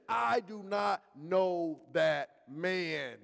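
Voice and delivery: slow, firm lightly voiced Peter; Peter's denial. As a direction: spell out each word of the denial. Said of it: "Peter says".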